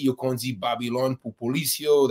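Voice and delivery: phrase pronounced as Haitian Creole. Shown as a demonstration. Activist shows how Haitians call police Babylon, in Haitian Creole. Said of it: "that's how they say it in Haitian".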